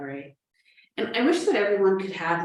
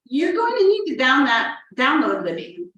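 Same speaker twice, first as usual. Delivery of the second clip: patient tech helper; 5 semitones higher, 5 dB louder than usual. Acted. Acting out virtual tech help.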